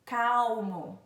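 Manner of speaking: "Calmo" said "cow-mo". Shown as a demonstration. Teacher showing L's other sound, "Calmo" as "caumo". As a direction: turn the L of "Calmo" into a "u" glide. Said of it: "mas como um som de U".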